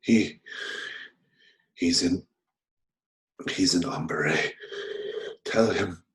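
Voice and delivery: halting last words between laboured breaths; dying man. Acted. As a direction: struggle to get each phrase out. Dying man's last words, broken by gasps.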